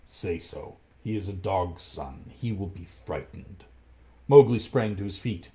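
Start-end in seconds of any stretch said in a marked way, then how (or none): 0.1-3.7 soft, lower panther murmur; whisper. Acted. Panther urges Mowgli under his breath, soft and low. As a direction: urge him under your breath. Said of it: "whispered Bagheera".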